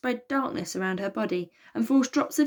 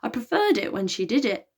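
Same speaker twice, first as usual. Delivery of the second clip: croaking; 4 semitones higher than usual. Acted. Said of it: "croaked Elliot".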